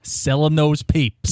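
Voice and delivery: put-on slow, stretched New York newsboy accent; playful imitation of a Brooklyn accent; Newsies accent. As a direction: draw it out like a Brooklyn paperboy. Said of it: "thinking about the Newsies accents".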